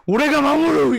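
loud anime hero vow, second take; earnest determined anime hero. Retold or imitated. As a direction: shout the vow like a shonen lead. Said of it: "막 이런 거 있잖아".

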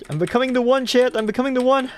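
high, loud giddy declaration; triumphant exclaim. Real, not acted. Streamer tells chat he is becoming the one, triumphant shout. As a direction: proclaim it like a chosen hero.

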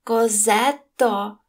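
loud, long drawn-out call. A narrator's reading. Innkeeper's wife summons Cosette, calling out loudly. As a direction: holler the name, stretching the vowels. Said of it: "гукнула Тенард'є".

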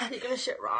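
loud laughing tease; laughing shout. Real, not acted. Teasing shout.

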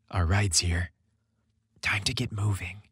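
soft whisper close to his ear; tender whisper. A narrator's reading. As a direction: whisper gently to wake a sleeping partner. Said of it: "Chris whispered tenderly".

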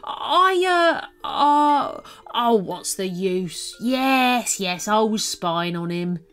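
flustered confession. A narrator's reading. Alien admitting to Eddie he spied, flustered. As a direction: fumble and then admit it. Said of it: "embarrassed and flustered".

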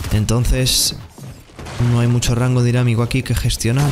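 ordinary delivery

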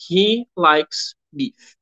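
each word slow and clear; slow, deliberate classroom English; slow model sentence. Shown as a demonstration. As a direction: read it slowly for students to copy. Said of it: "estivesse falando".

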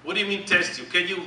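ordinary delivery

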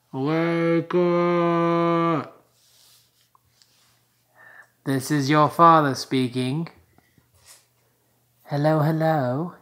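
a light put-on British accent; hint of a British father's announcement; mock British accent. Father addresses the baby in a light British accent. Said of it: "I'm not really British".

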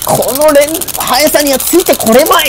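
screaming attack name. Acted. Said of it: "必殺の連打です".

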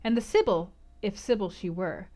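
calm, even audiobook reading; measured literary narration; story narration. A narrator's reading. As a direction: read the scene like a novel aloud. Reads novel narration.

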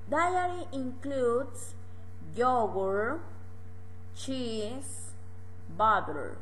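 Diary includes stretched slowly, half speed; slow teacher model. Shown as a demonstration. Teacher modelling English words slowly for students.

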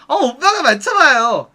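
slow, drawn-out coy invitation; coy stalling. Retold or imitated. Hostess making a customer guess her hometown, coy stalling. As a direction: stretch it out playfully to buy time.

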